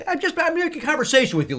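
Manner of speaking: high, protesting explanation; imitated exasperated friend; mock exasperation. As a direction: protest it as if stating the obvious. Mel exasperated by Lee's question.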